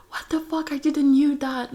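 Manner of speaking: high-pitched mock disbelief; imitating shocked friend. Best friend hearing the news, imitated shock. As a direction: act out a friend's high, startled reaction. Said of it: "best friend was like".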